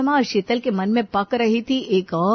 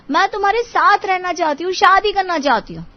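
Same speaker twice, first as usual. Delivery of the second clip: insistent plea; 4 semitones higher than usual. Acted. Girlfriend insists on marriage in quarrel.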